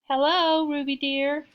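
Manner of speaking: high, loud, rough squeak; scratchy high fake-granny greeting; rough, squeaky voice. A narrator's reading. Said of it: "said a rough, squeaky voice".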